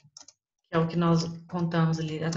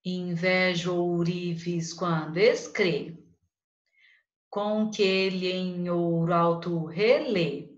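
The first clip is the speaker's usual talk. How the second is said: slow, measured verse reading; careful recital of a Parnassian verse; poem recital; slower than usual. Shown as a demonstration. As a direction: read the lines out slowly, like a poem. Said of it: "Faz a separação poética pra mim".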